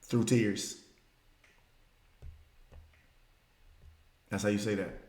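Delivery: sudden hush. Real, not acted. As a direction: drop it to almost nothing. Sudden drop after the build.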